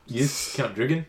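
mock New Zealand accent, questioning. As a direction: answer like a put-on New Zealander. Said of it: "kinda do a New Zealand one".

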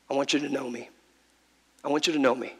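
soft plea. Pretend. Jesus voiced.

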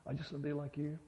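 fragile as a spark; small fragile voice. Acted. Inner voice answering the Lord, small and fragile. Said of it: "fragile as a spark".

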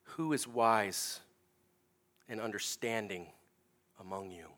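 slow, with long pauses between words; preacher quoting the challenge with weight; slow pointed question. Retold or imitated. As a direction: let each phrase hang in the air. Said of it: "And then he says this".

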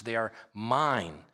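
slow, with weight on "mine"; "mine" stretched for emphasis; stress on MINE. Shown as a demonstration. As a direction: draw out the word "mine". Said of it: "you heard me emphasize the words".

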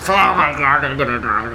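squealing with laughter; helpless laughter, high-pitched; laughing hysterically. Real, not acted.

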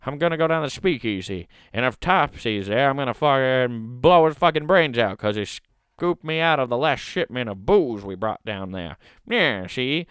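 hammed-up Prohibition mobster rant; old-time gangster. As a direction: play a tough-talking speakeasy hood, lightly. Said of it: "talked like gangsters".

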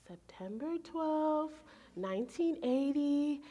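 spelled out slowly and clearly; slow repeat. Retold or imitated. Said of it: "And she's like, "What?".

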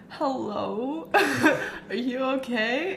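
soft, half-asleep phone answer; just woken, hushed and worried; groggy whisper. Retold or imitated. Woken by a late call, answering the phone sleepily.

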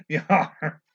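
loud hammed-up pirate growl. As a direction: play a cartoon pirate. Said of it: "We didn't talk like a pirate enough yet".

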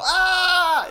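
high, loud "ah" yell; mock yell. Co-host imitating kidnapped Mokuba, high mock yell. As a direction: yell out like a helpless kidnapped kid. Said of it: "all he can do is yell".

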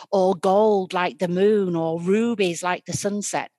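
loud, furious berating; angry scolding stepmother. Acted. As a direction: tear into her, shouting.

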